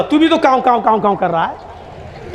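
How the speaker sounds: slow drawn-out mimicry of caws; mock the crow's cawing slowly. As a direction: pigeon mimicking crow's caw. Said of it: "कबूतर बोला".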